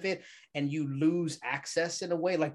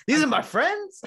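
stunned disbelief; 12 semitones higher, 8 dB louder than usual. Retold or imitated. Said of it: "And I go".

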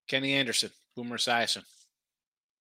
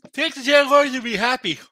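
emphatic urging; 9 semitones higher, 9 dB louder than usual. Real, not acted. Urging viewers to bet Jags.

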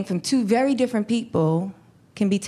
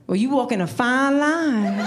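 lightly voiced small-town sheriff, a little higher; 4 semitones higher than usual. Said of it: "started sounding like a small town sheriff".

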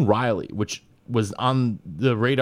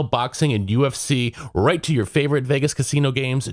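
ad read. Acted. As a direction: sell it like a radio spot. Reads sponsor ad.

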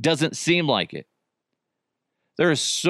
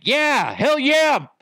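much higher, louder pumped shout; fired-up hell yeah; 11 semitones higher, 3 dB louder, much slower than usual. Shown as a demonstration. Showing how the quarterback should answer the teammate, pumped. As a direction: show him how to answer the hype. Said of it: "Turn around and be like".

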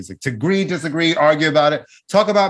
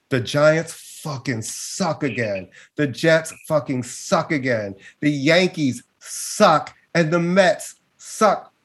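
disgusted; slower than usual. Real, not acted. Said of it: "I'm so frustrated".

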